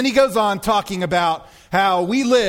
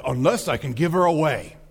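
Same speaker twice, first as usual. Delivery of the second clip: lower, lightly voiced king; King Richard impression; 3 semitones lower than usual. King relenting at the wedding, low mock-regal voice. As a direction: grant it with a touch of royal gravity. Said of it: "And he says".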